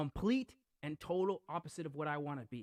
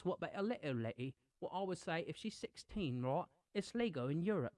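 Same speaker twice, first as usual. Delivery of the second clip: British accent. Shown as a demonstration. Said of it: "I could constantly talk like this".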